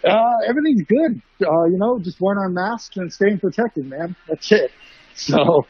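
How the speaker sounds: muffled through mask. Real, not acted. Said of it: "if I sound a little muffled ... wearing my mask".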